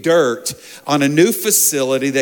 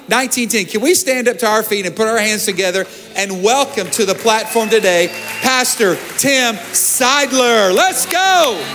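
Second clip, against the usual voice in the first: hype introduction; 5 semitones higher than usual. Real, not acted. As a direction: announce the guest like a rally. Host pastor introducing guest to crowd.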